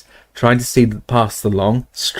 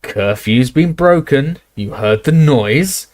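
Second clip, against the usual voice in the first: stern Death Eater; 4 semitones higher, slower than usual. Acted. Death Eater accusing the barman, slow and stern. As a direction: lay down the law slowly.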